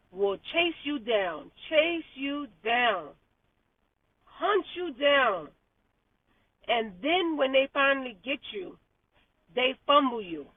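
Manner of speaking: slow quoted rant. Retold or imitated. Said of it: "she said".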